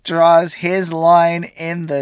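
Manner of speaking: loud, slow mock-dramatic announcer. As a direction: boom it out like a trailer narrator.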